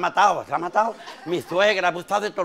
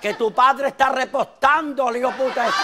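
wife screaming; 4 semitones higher, much slower than usual. Acted. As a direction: scream for help in horror. (la mujer gritando socorro)

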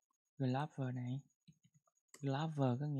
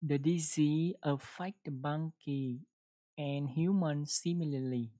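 careful reread. Shown as a demonstration. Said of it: "mình đọc gần đúng rồi đó".

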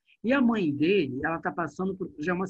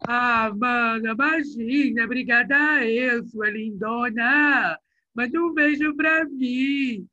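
slow, louder, stretched paulista slang; mock São Paulo accent; 5 semitones higher, 5 dB louder, slower than usual. Teacher mimicking a friend's mother thanking the attendant, slow mock paulista accent. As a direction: drawl it out like a carioca faking São Paulo. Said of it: "Olha o que ela fala".

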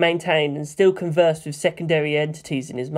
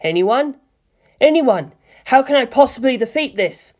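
higher, pleading call into the void; desperate plea; 8 semitones higher, 3 dB louder than usual. A narrator's reading. Frightened Shinji calling for help, higher pleading. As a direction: beg for anyone to answer. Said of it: "Fear gripped him".

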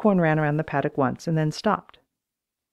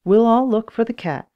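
high, louder creaky reassurance; 6 semitones higher, 5 dB louder than usual. A narrator's reading. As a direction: creak it out like an old woman. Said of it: "she creaked".

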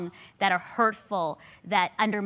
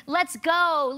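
high, loud, fired-up burst of zeal; all-in excitement; 11 semitones higher, 4 dB louder, slower than usual. Retold or imitated. Telling her husband how eager she was, excited and high. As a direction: pump yourself up, ready to charge. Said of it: "and I'm like".

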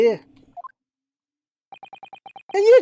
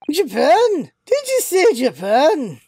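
shocked disbelief; 5 semitones higher, slower than usual. Acted. Governor shocked at Japan.

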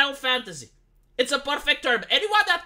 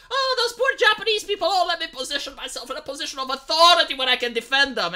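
mock pity; 5 semitones higher than usual. Mocking outraged Americans.

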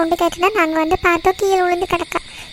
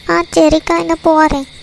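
loud reply; 6 dB louder than usual. Acted. Answering a call from afar.

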